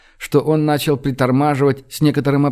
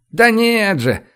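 high-pitched merry denial; amused exclamation without a laugh; 8 semitones higher, slower than usual. A narrator's reading. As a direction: protest as if about to laugh. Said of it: "рассмеялся снайпер".

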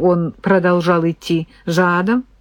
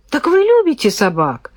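surprised; 8 semitones higher than usual. Acted. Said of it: "изумилась Люся".

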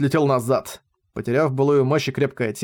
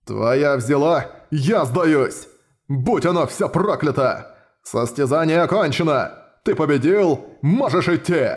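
sputtering foiled villain; slower than usual. Acted. Minotaur concedes defeat.

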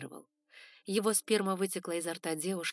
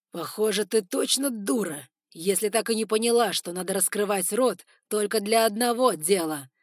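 cruel scorn; 3 semitones higher, 10 dB louder than usual. Acted. Lord turning cruel.

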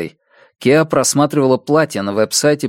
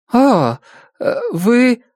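смятение; 11 semitones higher, much slower than usual. Acted. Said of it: "на её лице отразилось смятение".

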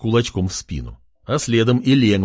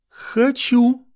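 капризно-восторженно. Acted. Eager girl.

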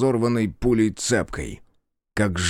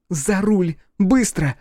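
higher, louder barked order; urgent shout; 10 semitones higher, 4 dB louder, slower than usual. Acted. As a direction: hurry him into the car. Sonka orders him drive.

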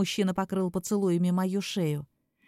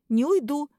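loud, high refusal; defiant shout; 6 semitones higher, 5 dB louder than usual. Acted. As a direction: stand your ground and shout it. Refusing the vampire firmly.

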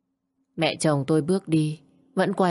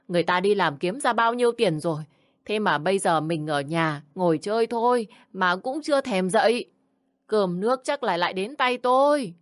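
mock scolding; 3 semitones higher than usual. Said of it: "tiếng mẹ chồng lại quát lớn".

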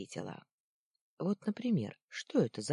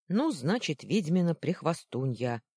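a touch of smug teasing, louder; mocking boy; 2 semitones higher, 6 dB louder than usual. First boy smugly renaming Luna, lightly mocking. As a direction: coin the insult with a smirk.

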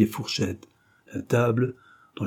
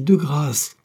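prudish indignation; 5 semitones higher than usual. A narrator's reading. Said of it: "s'indigna vivement".

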